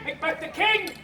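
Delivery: high rallying call; theatrical shout. Acted. Noble demands Macbeth be made king, high shout. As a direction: call it out to the crowd. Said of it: "The noble shouts".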